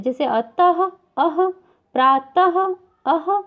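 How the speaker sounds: अतः and प्रातः said slowly, ending in a breathy अह; visarga as ह demo. Shown as a demonstration. Teacher models visarga ह sound for students, slow and deliberate. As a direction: stretch the final ह of अतः and प्रातः. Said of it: "इसका उच्चारण ह के समान होता है".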